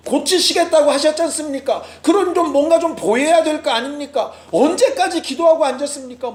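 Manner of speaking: a preacher voicing Habakkuk crying out to God; mock crying out. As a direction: raise the pitch and plead like a frustrated prophet. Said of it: "막 외치는 거죠".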